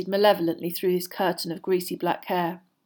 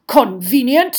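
loud, rising echo; disdainful query; 5 semitones higher, 10 dB louder, slower than usual. Acted. Headmaster answering Moody's insinuation, disdainfully. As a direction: toss it back as a question.

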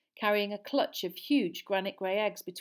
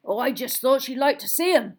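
big casual gamekeeper voice, louder; Hagrid shrug; 6 semitones higher, 11 dB louder than usual. A narrator's reading. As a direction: shrug it off easily. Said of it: "shrugged Hagrid".

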